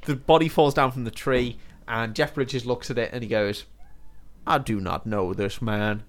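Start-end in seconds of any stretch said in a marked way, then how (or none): 4.5-6.0 weird cowboy voice. Retold or imitated. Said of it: "in his weird cowboy voice".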